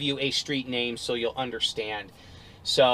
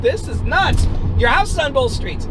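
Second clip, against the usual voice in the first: high, loud disbelief; yelling back; 11 semitones higher, 6 dB louder than usual. Retold or imitated. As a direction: holler it at an unreasonable man. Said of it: "we're yelling back and forth".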